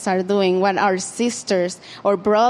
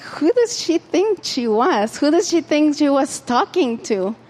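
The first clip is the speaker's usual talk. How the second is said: higher, indignant huffy voice; mock indignant Martha; 5 semitones higher than usual. Martha fuming at her sister about Jesus. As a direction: play the offended sister, pitched up. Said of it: "I was like".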